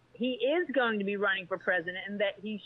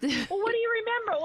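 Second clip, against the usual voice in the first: mocking question; 12 semitones higher than usual. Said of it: "It's like".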